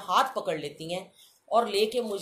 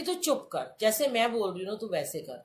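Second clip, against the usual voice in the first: bossy aunty; 2 semitones higher than usual. Retold or imitated. Aunty overrides her objection.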